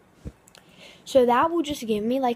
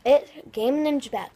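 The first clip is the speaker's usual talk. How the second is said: chewing gum. Real, not acted. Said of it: "I have gum in my mouth".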